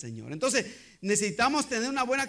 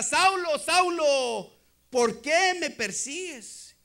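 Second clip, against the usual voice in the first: loud, slow, drawn-out call to Saul; divine voice calling out; 4 semitones higher, 3 dB louder, much slower than usual. Acted. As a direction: call out as the Lord confronting a persecutor. (voz divina que llama con fuerza)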